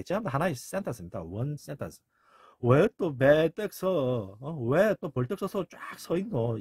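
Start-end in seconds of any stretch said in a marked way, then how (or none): 2.6-6.6 slow, stretched-out lament; theatrical mourner's wail; mock mourning. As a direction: drag out the question in pretend grief. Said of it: "애도하고 슬퍼하고 있습니다".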